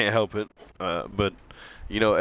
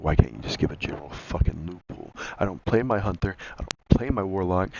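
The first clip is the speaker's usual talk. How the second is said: angry rant; 4 dB louder than usual. Real, not acted. Frustrated rant at Bungie.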